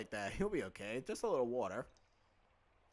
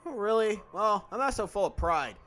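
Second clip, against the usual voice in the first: put-on higher, louder indignant young woman; indignant heroine; 7 semitones higher, 8 dB louder than usual. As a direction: fling the offer in disgust, louder. Female character indignant.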